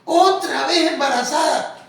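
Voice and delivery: high, loud scandalised cry; mock-scandalised shriek, slowed; shocked exclamation. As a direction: blurt it out like a gossiping church sister. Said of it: "cuando la ve venir dice".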